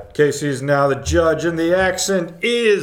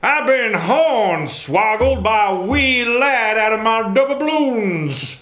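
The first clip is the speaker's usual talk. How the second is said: hammed-up Southern gentleman, pitched up; 7 semitones higher than usual. Host reading a card for the judge, Southern gentleman. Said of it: "Southern gentleman".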